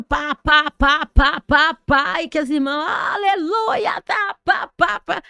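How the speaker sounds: loud mimicked tongues, sisters crying out; a hint of crying ecstatic worship; mock fervent prayer. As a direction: ham up the church sisters' shouted prayer. Imitating sisters praying in tongues.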